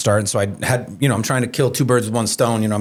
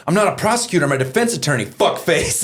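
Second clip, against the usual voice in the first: retold angry retort; 6 semitones higher than usual. Retort to heckler.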